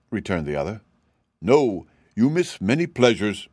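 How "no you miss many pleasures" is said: pitying. Acted. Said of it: "remarked the cab horse pityingly".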